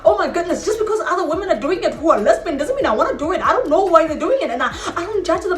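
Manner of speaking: high, rapid-tumbling protest; indignant rant. Retold or imitated. Lesbian woman protesting his offer of money, indignant rant. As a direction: protest in high-pitched, exasperated disbelief.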